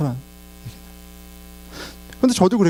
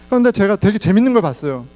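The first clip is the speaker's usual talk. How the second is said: usual speaking voice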